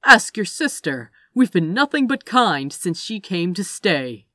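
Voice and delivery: loud, insistent self-defence; loud protesting. A narrator's reading. Gabriel claims he treated his captive kindly, loud protest. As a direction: protest your innocence loudly.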